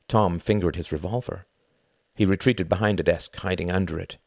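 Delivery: usual speaking voice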